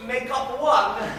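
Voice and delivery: lightly voiced domineering guardian declaiming in verse; Arnulf. Arnulf telling his ward she must marry him, lordly and smug. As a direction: lay down the rules of marriage, smug and superior. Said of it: "I was to play the character of".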